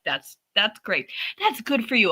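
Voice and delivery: mildly pandering pat on the head; condescending praise. Retold or imitated. Wife humoring husband's audiobook, mildly condescending. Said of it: "condescending and pandering".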